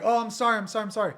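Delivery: high, soft, hurried apology; flustered apology. Retold or imitated. Walking in on someone, flustered high soft apology. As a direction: babble sorry while backing out. Backing out of occupied bathroom.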